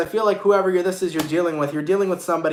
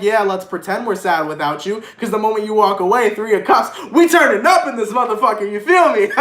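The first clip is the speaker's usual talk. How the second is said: hyped party talk; 5 semitones higher, 5 dB louder than usual. Retold or imitated. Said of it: "is like".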